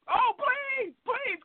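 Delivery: high mock pleading; imitating a begging customer. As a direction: beg her in a high squeaky voice. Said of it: "Cuz is like".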